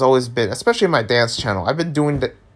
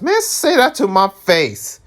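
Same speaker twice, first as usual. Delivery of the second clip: calling out trolls; 7 semitones higher than usual. Real, not acted. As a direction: dare the trolls to say it again. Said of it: "I'm calling you out".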